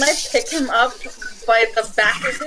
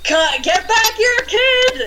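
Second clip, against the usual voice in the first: raised, high-pitched angry call after a runaway; angry yell; 11 semitones higher, slower than usual. Acted. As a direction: yell it angrily at a fleeing thief. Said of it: "angrily yell".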